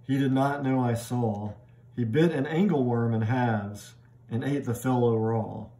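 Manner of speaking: measured, even poem reading. Shown as a demonstration. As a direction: read the lines like verse, steady and clear. Reads the poem aloud.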